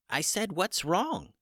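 a slow, high chicken voice saying "What's wrong?" again; chicken voice, repeated. A narrator's reading. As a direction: repeat the question patiently, high and slow like a small bird.

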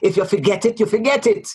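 lively Jamaican lilt on the proverb; Jamaican accent. Retold or imitated. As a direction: say it like a Jamaican saying. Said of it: "Your Jamaican accent is impeccable".

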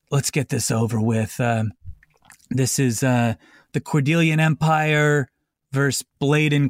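a hint of a weary dragonborn judge who wants it over; old checked-out judge. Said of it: "old and checked out".

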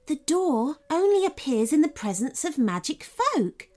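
the first fairy revealing a secret. Acted. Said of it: "said the first fairy".

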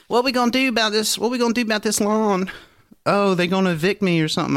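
high-pitched imitation of a tearful neighbor; mock crying. Imitating the crying neighbor worried about her lawn, mock tearful. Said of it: "she's, like, crying".

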